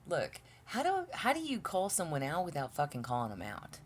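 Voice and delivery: tripping over the words; nervous stutter, restarting the question. Real, not acted. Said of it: "I'm totally stutter stepping".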